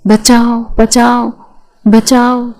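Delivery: understated cries of help with eyes shut; lightly acted help calls, repeated; mild mock cries for help. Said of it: "زور زور سے چلانے لگی".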